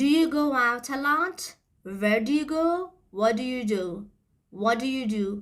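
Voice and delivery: "What do you do?" run together as "whaddya do"; connected speech. Shown as a demonstration. Teacher modelling "What do you do?" run together for students. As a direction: blend "do you" into one quick reduced sound.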